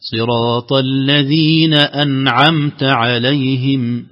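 slow, melodic chant, clear ع in أنعمت; recitation model. Shown as a demonstration. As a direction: chant it for the student to copy. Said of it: "نفس النبرة هذه". (ترتيل بطيء للمحاكاة)

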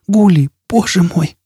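high, slow, drawn-out cry; weak voice. Acted. Jisbella answers Foyle in the torrent, weak slow cry. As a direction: answer feebly from the rushing water. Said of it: "ответила слабым голосом".

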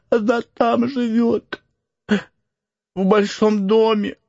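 high, slow, close to crying; tearful answer. Acted. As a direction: answer through tears. Frightened Max answers.

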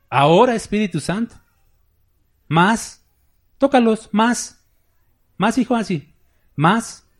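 loud, high mock preacher commanding the Spirit; mock decreeing preacher. Preacher mocking those who command the Holy Spirit, shouting high. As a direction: ham up a preacher ordering the Holy Spirit to touch people. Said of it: "¿No han visto un predicador que dice así?".

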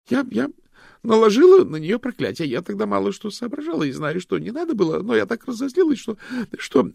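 high, loud stammering admission; nervous confession. A narrator's reading. Loretta admits the curse to the detectives, high and nervous.

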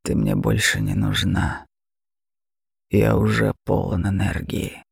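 a mocking beast purring at its prey; terrifying dragon. Dragon voice held.

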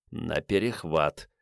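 low, soft, slow eager whisper; urgent backstage whisper. Acted. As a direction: whisper a command with excitement. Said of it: "азартным шёпотом скомандовал".

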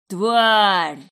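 loud pained howl of rage. Acted. Pinned Vadim howling at his captor. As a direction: howl the insult from the floor. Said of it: "взвыл он".

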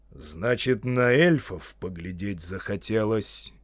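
slow, mildly threatening question; playfully severe wizard; mock menace. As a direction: question sternly without real threat. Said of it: "грозно, но уже не страшно".

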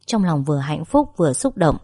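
ordinary delivery, nothing marked

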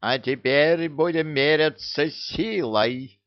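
slow, booming proclamation. Acted. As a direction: proclaim it to the whole clan. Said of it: "громогласно провозгласила". (громогласно, торжественно)

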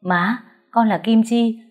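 a hint of tearful pleading; pleading daughter. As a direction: beg her mother to recognize her. Daughter pleads with crazed mother.

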